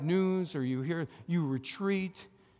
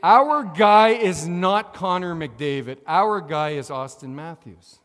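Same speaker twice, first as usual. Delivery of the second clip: fan shout; 12 dB louder than usual. Real, not acted. Sports fan hyping his player.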